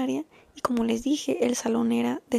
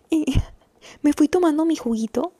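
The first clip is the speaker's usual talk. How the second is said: laughing; 4 semitones higher, 5 dB louder than usual. Real, not acted. Laughing while recalling walking away.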